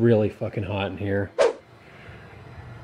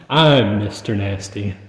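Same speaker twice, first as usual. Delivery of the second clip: laughing; 3 semitones lower, 3 dB louder than usual. Real, not acted. Jokingly claims the ghost's name.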